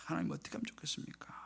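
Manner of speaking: soft, helpless plea to God; retold hushed prayer; pleading prayer. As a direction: sigh the question out very quietly. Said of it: "기도원에 이제 그때 가서 기도를 했어요".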